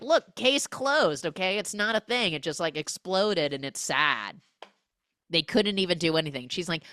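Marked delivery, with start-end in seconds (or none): 0.0-4.4 mock dismissive cop.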